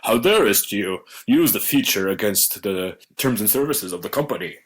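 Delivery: attempted stern British scolding; badly faked British telling-off; lightly voiced stern Englishman. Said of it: "with a stern voice".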